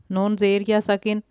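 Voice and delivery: put-on نون زیر یا ساکن read with zer, the mistake children make; common wrong reading. Shown as a demonstration. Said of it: "اکثر بچے غلطی کر جاتے ہیں". (غلط تلفظ: نون زیر یا ساکن)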